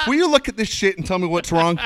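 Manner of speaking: high, loud quote broken by laughter; laughing while quoting. Retold or imitated. Retelling the son's complaint to his mom, laughing through it.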